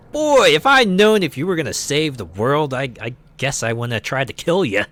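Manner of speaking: lightly voiced sheepish villain; a touch of awkward apology; Matt Miller quote. Game villain to the hero, lightly voiced sheepish. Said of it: "he's just going".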